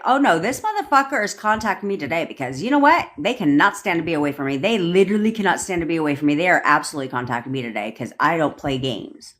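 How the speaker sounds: rapid-fire, mildly indignant affirmation; fast pep talk with a touch of anger; angry self-assurance. Acted. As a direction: rattle it off with cocky insistence. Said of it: "leverage the anger and be like".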